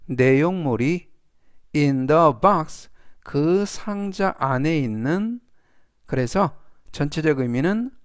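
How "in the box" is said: very slow, deliberate example sentence; slow model reading. Shown as a demonstration. Teacher reading the example aloud to students, slow and clear. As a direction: spell each word out for learners.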